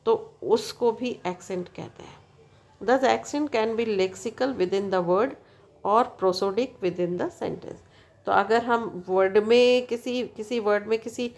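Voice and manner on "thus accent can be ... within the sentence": slow, even dictation pace for notes. Shown as a demonstration. Teacher dictating a definition to students, slow and deliberate. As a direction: read it out word by word so students can write.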